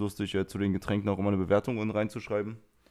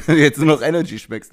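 laughing; 5 semitones higher, 13 dB louder than usual. Real, not acted. Laughs mid-sentence.

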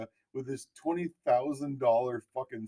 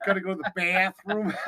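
higher mock Boston accent; Bostonian Jewish woman; 4 semitones higher than usual. Friend teasing about a wife's A's, Bostonian Jewish accent. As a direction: imitate Bostonian A's in "bathroom". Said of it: "My wife is like a Bostonian Jewish woman".

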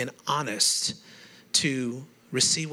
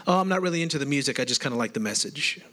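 mocking quote; 2 semitones higher, faster than usual. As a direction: rattle it off like a shallow excuse. Mocking a churchgoer's phrase.

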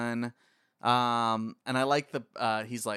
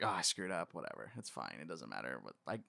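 resigned mumble; 6 semitones lower, 10 dB quieter than usual. Retold or imitated. Quoting his resigned reaction.

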